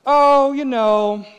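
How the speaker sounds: loud, high, long-drawn hedge; hedging teaser. Retold or imitated. Friend testing if you really want to know, drawn-out teaser. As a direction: stretch it out slowly, testing the water. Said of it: "some sort of little teaser".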